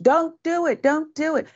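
high-pitched mock plea, stretched out. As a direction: imitate a helpless bystander's warning, pitched high. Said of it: "happening in slow motion".

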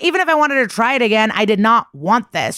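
high, fast, flustered protest; retelling a victim's flustered outburst; upset protest. Retold or imitated.

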